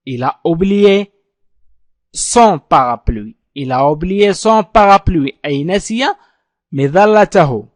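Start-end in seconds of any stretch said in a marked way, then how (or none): 0.1-5.4 Il a oublié son parapluie laid out slowly; slow model sentence. Shown as a demonstration. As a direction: dictate it slowly for learners. Teacher models sentence twice. (نطق بطيء لجملة Il a oublié son parapluie)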